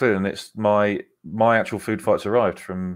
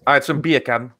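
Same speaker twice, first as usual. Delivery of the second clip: light mock-Jamaican accent; hint of Jamaican, playfully put on; 2 semitones higher than usual. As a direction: say it like a Caribbean breakfast order. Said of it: "you're reggae now".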